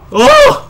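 very high sudden "oh"; startled yelp. Real, not acted. Player startled mid-game, high yelp.

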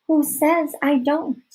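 put-on high, drawn-out girlish retort; slow, pointed comeback; challenging girl. A narrator's reading.

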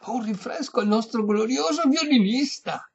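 high, loud, grand announcement; calling to servants. A narrator's reading. Old lady ordering servants a refreshment, high loud call. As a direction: call out grandly across the room.

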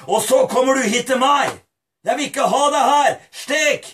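reproachful father, mildly acted; a touch of indignant rebuke; lightly voiced stern father. Another father rejecting his son, mildly acted rebuke. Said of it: "En annen far kunne ha sagt".

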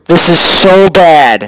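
slow, loud exasperated groan. Real, not acted. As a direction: stretch it out, loud and fed up. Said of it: "sorry for being really loud".

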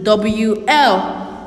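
C R A W L spelled very slowly, each letter apart; teacher spelling for young pupils. Shown as a demonstration. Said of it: "And crawl is spelled".

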